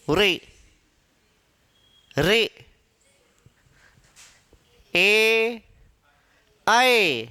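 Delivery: "रे, रे, ए, ऐ" as isolated letter sounds; teacher pronouncing the vowel chart; vowel demonstration. Shown as a demonstration. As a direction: sound out each vowel alone, with space between. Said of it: "इनका उच्चारण करके देखते हैं".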